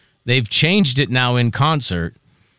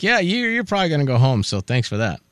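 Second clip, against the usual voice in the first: mock dismissive. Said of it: "then you're like".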